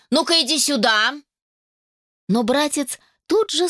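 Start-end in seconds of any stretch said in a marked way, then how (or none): 0.1-1.1 higher, raised call; commanding call. Acted. Mother ordering her son to come over, raised call. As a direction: summon him, sharp and high. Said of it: "рявкнула она".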